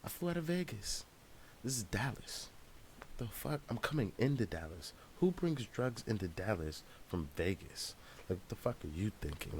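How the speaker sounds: high-pitched exasperated ranting at the guard; incredulous high mock rant; frustrated rant. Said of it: "I'm just like".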